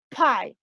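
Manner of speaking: "Pie" with a burst of air on the P; English "Pie", strongly aspirated P; explosive P. Shown as a demonstration. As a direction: pop the P of "Pie". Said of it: "Mucho más explosivo".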